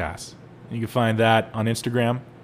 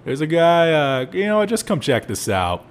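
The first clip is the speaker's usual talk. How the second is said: calling the boss; 3 semitones higher than usual. Retold or imitated. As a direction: call the boss over in a hurry. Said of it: "tell my boss, like".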